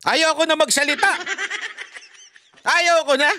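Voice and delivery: teasing, laughing refusal. Real, not acted. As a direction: refuse to go on while giggling.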